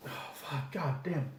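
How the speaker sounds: breathless strained curse from spice heat; burning mouth. Real, not acted. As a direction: gasp it out as the sauce burns. Reacting to burning hot sauce.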